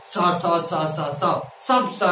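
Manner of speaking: "सा" repeated identically in a row; mock undifferentiated "सा, सा, सा"; all sibilants alike. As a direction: merge every sibilant into the same "सा". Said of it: "कुछ लोग तो एक ही रेट में लपेटते हैं".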